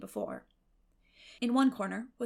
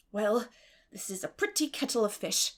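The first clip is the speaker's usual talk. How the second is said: wrathful; 3 dB louder than usual. Acted. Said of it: "she said wrathfully".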